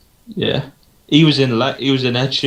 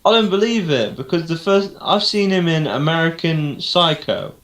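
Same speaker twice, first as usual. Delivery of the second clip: astonished; 6 semitones higher than usual. Real, not acted. Astonished at Bale being British.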